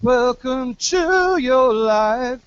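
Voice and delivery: high, slow, to sung as tu; right vowel. Shown as a demonstration. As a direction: land to on a round tu.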